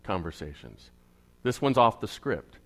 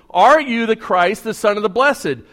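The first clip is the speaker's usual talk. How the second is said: high priest questioning; 7 semitones higher, 8 dB louder than usual. Acted.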